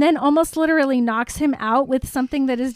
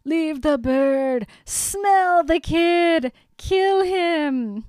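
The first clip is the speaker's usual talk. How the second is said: slow, higher, hammed-up commands; villain yelling at his snake, slow and higher; mock scream; 4 semitones higher, much slower than usual. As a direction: drag out each order like a ranting villain. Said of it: "Riddle screams at the snake".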